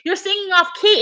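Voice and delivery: mock yell, pitched high; retold yelling. Retelling how he scolded her singing, mock yelling. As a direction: imitate an annoyed yell without much volume. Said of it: "He was, like, yelling".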